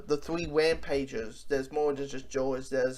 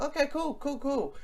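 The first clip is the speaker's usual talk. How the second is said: deadpan cool; 8 semitones higher, 4 dB quieter than usual. Retold or imitated. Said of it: "And I'm like".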